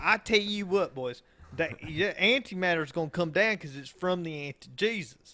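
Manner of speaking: hammed-up Bible-thumping redneck; redneck accent. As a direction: put on a thick Southern redneck accent. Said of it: "sounds like he was born and raised".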